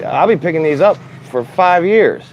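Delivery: high-pitched comic protest; exaggerated exasperated whine; retold exasperation. Retold protest at being sent to highway.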